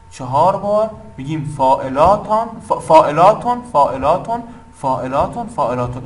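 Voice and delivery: FAELATON in four even, chant-like beats; rhythmic demo. Shown as a demonstration. Teacher sounding out the poem's meter, rhythmic demo. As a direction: say each فاعلاتون as one measured foot. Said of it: "بهش بگین فاعلاتون".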